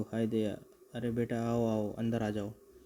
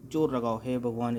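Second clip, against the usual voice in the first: louder, pushed out while pulling hard; straining effort; 5 dB louder than usual. Acted. Thugs haul the heavy sack up, straining loud. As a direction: heave on the rope as you say it.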